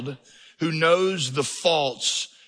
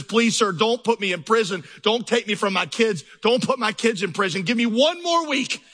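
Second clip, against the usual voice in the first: higher, begging voice of a weeping man; pleading debtor; 6 semitones higher than usual. Acted. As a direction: plead with the master for mercy. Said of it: "he just starts to weep".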